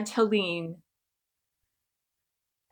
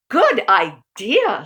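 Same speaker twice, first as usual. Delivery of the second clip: drawn-out, louder good idea; slow approving; 6 dB louder, slower than usual. Acted. Aunt Helene approving Uncle Murray's plan, slow and drawn out. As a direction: savour the words slowly.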